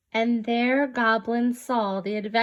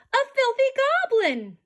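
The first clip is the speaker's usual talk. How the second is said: shrieking disgust; 13 semitones higher, faster than usual. Acted. Farmer spotting the goblin, shrieking disgust. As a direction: scream it out in horror. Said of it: "shrieked the farmer".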